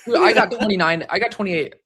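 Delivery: loud bragging gym bro. Pretend. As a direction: boast about your arms like a gym bro. Bragging about arm size.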